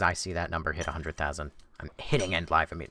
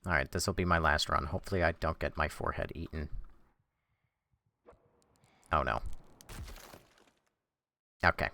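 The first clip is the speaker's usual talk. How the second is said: ordinary talk, nothing marked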